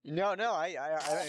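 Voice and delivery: high, loud, eager to jump in; excited interruption. Real, not acted. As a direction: burst in eagerly.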